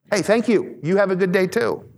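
bright sarcastic thank-you to someone who cut you off; mock cheery thanks. Preacher mocking thanks to a driver who cursed you, sarcastic.

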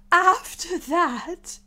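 high, loud, very slow start; resume high and drawn out; nervous Hatter. Acted. Hatter continues testimony.

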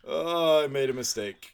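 hammed-up alarmed boyfriend; mock panic. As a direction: sell the sudden regret. Dale's panicked backpedal.

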